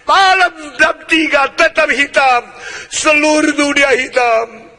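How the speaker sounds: slow, heavy, each hour weighed; slow dramatic sermon build; slow emphatic preaching. Acted. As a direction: hammer the darkness home slowly. Preacher builds dark imagery.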